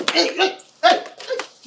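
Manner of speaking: loud, high cry of hey; loud protest. Acted. Stepbrother to the angry girl, loud high protest. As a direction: cut her off sharply. Trying to stop her.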